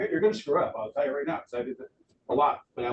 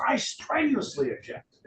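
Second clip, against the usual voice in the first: much higher, hammed-up protest; mock indignant objection; 10 semitones higher than usual. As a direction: object in a high overwrought huff. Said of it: "she stands up and she goes".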